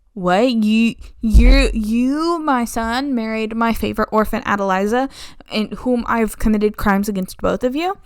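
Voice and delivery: stammering, aghast; horrified Countess confronting her son and his bride, aghast; horrified shock. Retold or imitated.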